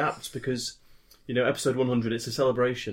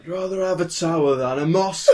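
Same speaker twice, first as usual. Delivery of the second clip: laughing; 9 semitones higher, 5 dB louder than usual. Real, not acted. Joke said while laughing.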